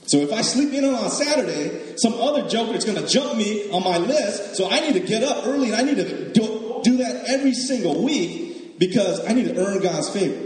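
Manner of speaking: a hint of frantic religious striver; mock anxious believer. Mocking a rule-keeper's anxious logic.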